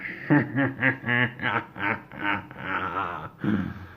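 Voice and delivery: a mildly voiced villain cackle; lightly hammed-up evil chuckle; evil laugh. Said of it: "He was going".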